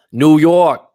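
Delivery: loud, high, drawn-out call; big full-voiced holler; hammed-up shout-out. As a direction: belt out the city name like a hype man. Shout-out to viewer's home city.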